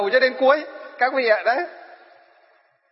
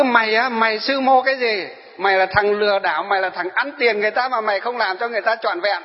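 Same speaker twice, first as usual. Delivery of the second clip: raised, accusing rant at the monk; mock angry scolding; 2 semitones higher than usual. Retelling the young man cursing the monk, mock angry rant. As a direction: jab the finger and berate him, half-acted. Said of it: "nó chỉ mặt mình nó chửi thôi".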